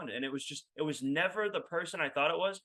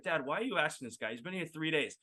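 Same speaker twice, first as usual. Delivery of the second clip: inner thought; 6 dB quieter than usual. Retold or imitated. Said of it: "in my head, I'd be like".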